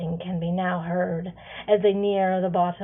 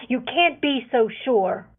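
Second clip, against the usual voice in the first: retorting; 4 semitones higher, 5 dB louder than usual. Acted. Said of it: "Venter retorts".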